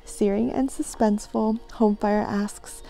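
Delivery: blurb read-aloud. Acted. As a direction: read the jacket copy out loud.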